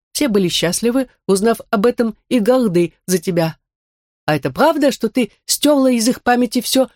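lightly voiced android. Curious android Max asks. (голос андроида)

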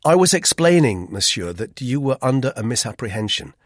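severe. A narrator's reading. Narrator corrects Roux's misapprehension, severely. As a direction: set him straight severely, voice lifted. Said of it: "I went on severely".

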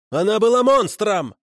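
high, vehement cry; angry outcry. A narrator's reading. Prisoner insists the dead woman was a monster, crying out. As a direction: burst out with the accusation, pitch way up. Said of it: "выкрикнул Макар".

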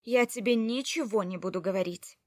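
angry refusal. Acted. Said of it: "Я посмотрела с гневом".

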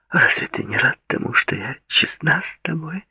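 put-on sweet, insistent young woman; Claudia's voice. A narrator's reading.

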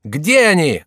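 high, loud yell; yelling courtier. A narrator's reading. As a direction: howl for the enemy. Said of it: "завопил Шомберг". (громкий вопль)

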